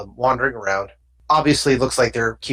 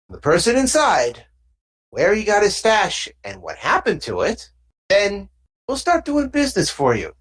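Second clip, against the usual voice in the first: lightly voiced thug handing out a job; a hint of gangster, coaxing and pushy; thug giving orders; 7 semitones higher than usual. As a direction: give orders like a street boss's middleman.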